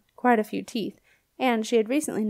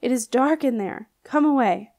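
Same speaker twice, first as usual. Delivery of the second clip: wailing ghost; 3 semitones higher, 4 dB louder than usual. Acted. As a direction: plead from beyond in an eerie wail. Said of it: "wailed the ghost".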